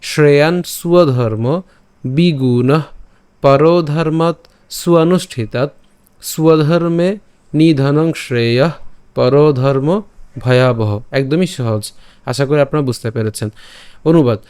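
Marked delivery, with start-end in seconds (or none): 0.0-10.9 slow, evenly phrased shloka with pauses between words; measured Sanskrit diction, long vowels held; Sanskrit verse recitation. Shown as a demonstration. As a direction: recite the verse carefully as a model for learners. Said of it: "আমি আবার যদি প্রথম থেকে উচ্চারণ করি".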